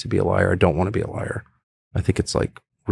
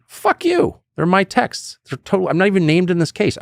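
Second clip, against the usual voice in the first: high, defiant outburst at the lawyer; mock defiance at the lawyer; 8 semitones higher than usual. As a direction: tell them off, indignant. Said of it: "that's what I should have said".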